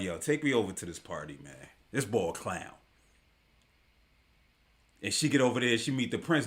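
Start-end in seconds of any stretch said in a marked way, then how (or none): 0.0-2.7 a lower, dismissive woman's aside; lightly voiced brush-off; imitating her, lower and softer. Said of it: "And she like".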